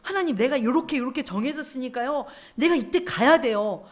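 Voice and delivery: mock whiny demand to God; lightly acted stubborn pleading; childish insisting. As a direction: imitate a child pestering to get their way. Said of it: "하나님 앞에 떼를 쓰고 있는 거예요".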